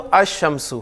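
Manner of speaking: الشمس as ash-shams, l merged into sh; lam silent. Shown as a demonstration. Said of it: "دو باتیں آ رہی ہیں".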